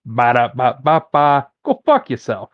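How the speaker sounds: jingle in a mock Boston accent. Joking about the rude drive-thru slogan, light Boston accent. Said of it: "in a Boston accent".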